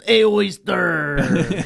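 teasing imitation, very slow and high; Miguel. Mocking their friend to co-hosts, drawn-out imitation. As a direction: stretch it right out in mockery. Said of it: "we make fun of Miguel".

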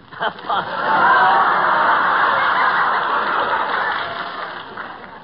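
big burst of laughter; uproarious guffaw; loud laugh. Acted. Doctor's own joke gets a laugh.

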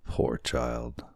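soft, gentle pity; kindly. A narrator's reading. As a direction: say it softly, with a touch of tenderness. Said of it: "looked upon Kekua kindly".

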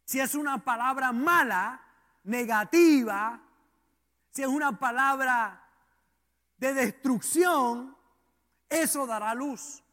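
deliberate phrases broken by pauses; emphatic preaching. Real, not acted. Preacher contrasting bad and good words, emphatic preaching. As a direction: land each key word firmly, then pause.

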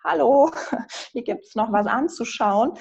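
mock call. Life calling out, personified.

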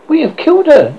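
loud, high hoarse cry. A narrator's reading. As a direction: rasp it out in shock.

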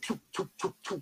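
quick mouthed "choop" noises; imitated doors shutting. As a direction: mimic doors shutting one after another. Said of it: "all the doors would".

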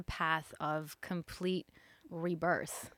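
breathy hushed whisper. Real, not acted. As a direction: drop to a secret whisper. Teasing build to guest intro.

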